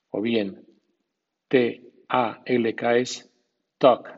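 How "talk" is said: "talk" sin L, como tok, destacado; English "talk". Shown as a demonstration. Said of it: "sin L". (di "talk" sin la L)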